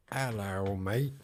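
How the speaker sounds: put-on half-hearted Australian accent, barely shifted; mock Australian greeting. Greeting new viewer Joyce from Australia in weak Australian accent. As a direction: toss off a lightly voiced Australian "Hello, mate". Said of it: "I'm not going to do a Crocodile Dundee voice".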